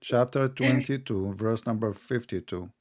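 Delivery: slow, measured citation; deliberately slow. Real, not acted. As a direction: spell the reference out slowly. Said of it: "I have to say it slowly".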